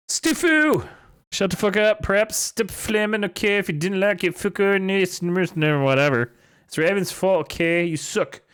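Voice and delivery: high-pitched mock tantrum voice; ranting fanfiction author. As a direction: rant in a high put-on voice.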